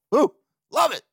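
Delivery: a high, bright cheer of delight; thrilled little cheer about the Orioles; excited whoop. Real, not acted. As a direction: whoop it up over playoff baseball. Excited about playoff baseball.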